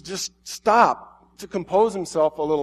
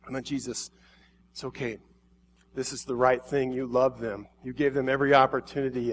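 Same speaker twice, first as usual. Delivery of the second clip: much softer, gentle reassurance; comforting angels; 3 semitones lower, 5 dB quieter than usual. Acted. Angels comforting grieving Jesus, soft and gentle. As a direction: soothe a grieving friend. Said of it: "trying to comfort him".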